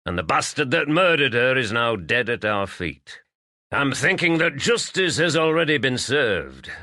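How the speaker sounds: lightly voiced stubborn farmer, resolute; gruff farmer. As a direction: lay it down like a final judgment.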